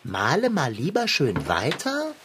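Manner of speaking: „Male mal lieber schön weiter?“ als verwunderte Frage mit Hebung auf „weiter“; ungläubig nachgefragt. Acted. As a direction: irritiert zurückfragen, was der andere meint. Kater wiederholt ungläubig die Aufforderung. (Kater fragt den Radschrauber verwundert zurück)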